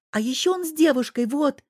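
put-on thrilled little boy tattling; excited child. A narrator's reading. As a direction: blurt out the gossip proudly. Child voice continues.

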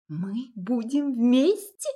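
drawn out in shock; taken aback. A narrator's reading. A woman stunned by his proposal, taken aback. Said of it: "опешила она снова".

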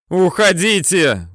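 high, loud, slow shouted order; near-hysterical shout. A narrator's reading. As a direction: yell on the edge of panic. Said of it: "с истерикой кричит взводный".

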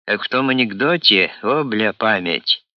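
ordinary delivery

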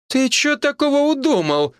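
high outraged cry; indignant exclamation. A narrator's reading. Healer scolding her neighbour, indignant exclamation. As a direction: scold him, indignant and sharp. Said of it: "возмущённо воскликнула она".

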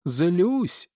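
high, furious echo of his word; Persephone, even angrier, screaming at Hades; enraged shout. A narrator's reading. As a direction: fling the word back in fury. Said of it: "ещё больше рассвирепела Персифона".

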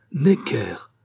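sharp stunned whisper of a name; a cry of the name that comes out as a whisper; exclaimed. Acted. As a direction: breathe the name out in a shocked whisper. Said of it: "s'écria-t-il".

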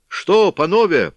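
loud, high, slow proclamation; proclaiming. A narrator's reading. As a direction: announce it to the whole crowd. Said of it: "провозгласили во весь народ".

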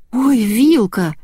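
put-on a girl thrilled at the outfit; delighted. A narrator's reading. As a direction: stretch her name out in delight. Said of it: "Девочка пришла в восторг".

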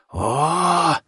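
short roaring dragon cry; huge fiery dragon roar. A narrator's reading. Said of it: "Дракон тридцать девять взревел".

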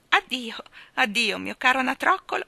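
high, lingering farewell call; fond, high-pitched goodbye. A narrator's reading. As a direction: call after something floating away. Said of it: "ella invocava mentre il pallone spariva".

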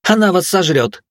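high, loud, slow cackling jeer; guffawing. Acted. Hilda guffaws a warning at the staring students, loud and high. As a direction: bray it out with a laugh. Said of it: "заржала Хильда".

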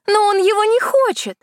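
высокий снисходительный голос колдуньи; рассуждай свысока, словно ведьма; колдунья, поучающе. Acted. (колдунья поучает Кисану, высоко и снисходительно)

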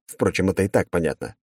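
ordinary delivery

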